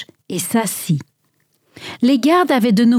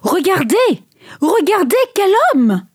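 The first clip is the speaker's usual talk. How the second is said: high, emotional exclamation; trembling voice; 9 semitones higher than usual. A narrator's reading. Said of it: "la voix tremblante". (la voix un peu tremblante)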